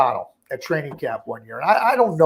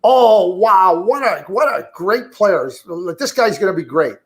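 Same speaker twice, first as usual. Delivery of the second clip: gushing fan; 2 semitones higher than usual. Retold or imitated. Analyst mimicking a fan's gush, mock excited. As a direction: ham up an overexcited fan raving about one game. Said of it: "when I hear something like".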